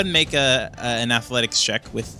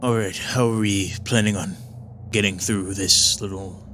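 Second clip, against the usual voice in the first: lightly voiced, slightly lower Balrog; a hint of a gruff warrior asking the plan; party leader Balrog asking how to get through the door, lightly voiced; Balrog speaking; 5 semitones lower than usual. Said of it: "He says, um".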